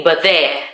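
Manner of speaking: "but there" with BY shortened to "buh"; Welsh "by there". Shown as a demonstration. Explaining a Welsh phrase to viewers, "but there" run together as "buh-there". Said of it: "Welsh people say".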